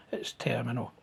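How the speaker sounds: hushed, as if the word is hard to say; whispered verdict. Retold or imitated. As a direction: whisper the word terminal, unvoiced. Retelling being told it's terminal.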